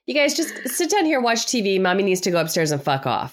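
high sing-song mommy voice; pretend mom announcement. Mom telling daughter and husband she's leaving, high and sweet. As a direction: announce your exit sweetly to the family. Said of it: "my daughter and husband".

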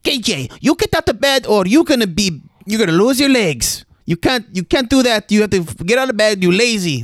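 high-pitched mock Asian accent scolding; high Asian-accented nurse voice. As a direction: nag him out of bed in a put-on Asian accent. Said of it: "so I'll do the Asian accent".

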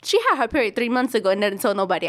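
mildly indignant, quickened retelling; retold annoyance. Older sisters complaining about the youngest, mildly pissed off. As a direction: imitate a fed-up older sibling, lightly. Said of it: "pissed off".

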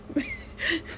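soft, breath-only laugh; soft chuckle. Real, not acted. Host amused by inside joke, soft chuckle. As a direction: chuckle quietly to yourself.

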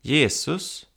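called out. Retold or imitated. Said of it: "Då skriker någon till honom".

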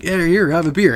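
high put-on voice of a friend; imitated Brian. Friend offering the bum a drink, imitated Brian. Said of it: "He's like".

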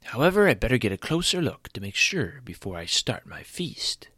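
breathy scheming whisper; creepy vulture whisper. Acted. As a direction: whisper it like a hungry scavenger. Vulture plotting his meal.

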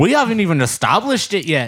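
put-on Scottish accent. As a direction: slip into a mock Scottish accent. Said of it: "that was Scottish".

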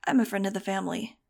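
quick, offhand reply; casual. Acted. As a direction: toss it off casually. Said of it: "Dylan responded casually".

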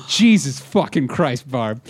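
slow curse, a touch of anger; retold exasperation. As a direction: drag out the curse in mild mock despair. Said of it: "for not yelling".

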